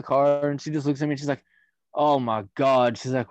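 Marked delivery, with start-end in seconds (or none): 1.9-3.0 slow exasperated groan. Retold or imitated. Girlfriend sees clown mask.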